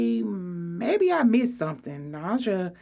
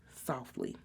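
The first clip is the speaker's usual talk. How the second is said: ordinary delivery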